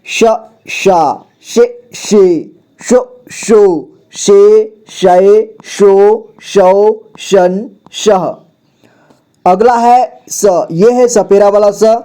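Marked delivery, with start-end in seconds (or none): 0.1-8.3 slow, sing-song syllable recitation; slow teacher drill chant. Shown as a demonstration. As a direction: chant each syllable out for the class. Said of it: "अब यहाँ देखिए".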